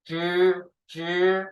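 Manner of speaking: zhi with the tongue curled back. Shown as a demonstration. Teacher models the retroflex zhi for the class. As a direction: twist the tongue up and say G. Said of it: "twist up your tongue".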